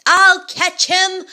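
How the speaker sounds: high, loud, slow hunting cry; eager shout. Acted. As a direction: shout it like hungry giants. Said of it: "cried every one of those dreadful creatures".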